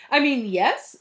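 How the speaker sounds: hoarse braying donkey voice; donkey with tonsillitis. A narrator's reading. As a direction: bray it, sore-throated. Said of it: "sounded like the donkey with tonsillitis".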